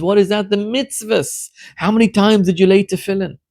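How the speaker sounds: God as a grieving father, mild sob in the voice; God crying. Acted. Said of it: "our Father, starts to cry".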